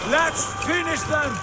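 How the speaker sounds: high, loud rallying shout; battle cry. Acted. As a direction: shout your warriors into the attack. War leader as fight begins.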